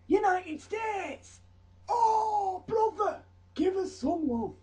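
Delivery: very high, loud, drawn-out squeal of delight; hammed-up excited welcome; overjoyed greeting. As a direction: greet a long-lost brother with shrieking joy. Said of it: "Croatia was stood there and went".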